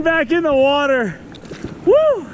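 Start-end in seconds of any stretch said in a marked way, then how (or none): 1.9-2.2 high, loud cheer of delight; excited whoop. Real, not acted. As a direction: let out a thrilled whoop. Cheers as the fish swims off.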